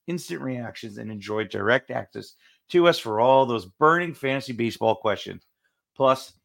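promo read. Acted. Reads a promo for the club.

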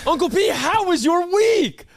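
spring the question on him first; sly ambush question. Acted. Host beating co-host to the weekly question, sly gotcha. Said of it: "I got his ass".

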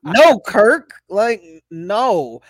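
mock scolding. Scolding imagined Kirk.

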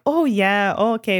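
slightly lifted, sunny Midwest accent; happily oblivious Midwest. Shown as a demonstration. Showing how Midwest and Canadian sound alike, happily oblivious Midwest. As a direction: demonstrate a blithely oblivious Midwest lilt. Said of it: "happy obliviousness".

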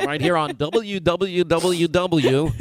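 slow, drawn-out call letters in a hammed-up announcer voice; mock station ID. Host spoofing a radio station ID for his cohost, slow and hammed-up. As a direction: stretch the station letters like a cheesy DJ. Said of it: "like a real reporter".

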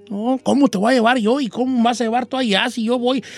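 protesta apurada del enamorado; objeción alarmada. Acted. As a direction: discute con la muchacha, un poco más agudo. Voices the worried boyfriend objecting. (objeción alarmada, actuada)

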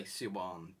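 "Siobhan" said see-BAWN; like an actual name. Shown as a demonstration. Explaining own reading of the name, "Siobhan" as see-bawn. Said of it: "to make it sound like an actual name".

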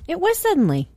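whispered answer. Real, not acted. Revealing the answer.

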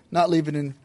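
a grieving whisper. Acted. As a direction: let the words fade to a whisper. Grieving Obi-Wan trails to whisper.

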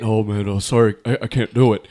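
declining call. Retold or imitated. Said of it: "So it was like".

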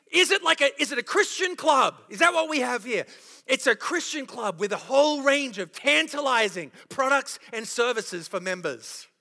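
dry mocking sarcasm; sarcastic. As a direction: sneer at the Christian club idea. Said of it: "I'm being sarcastic to make a point".

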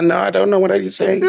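English in a high Afrikaans tone; Afrikaans accent. Shown as a demonstration. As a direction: sound Afrikaans without Afrikaans words. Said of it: "English in an Afrikaans accent and tone".

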